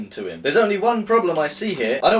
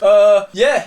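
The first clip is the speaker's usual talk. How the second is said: loud, offhand mock shrug; lazy villain voice; 6 semitones higher, 9 dB louder than usual. Co-host mocking how the villain's speech ends. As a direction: play the villain trailing off. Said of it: "He just goes".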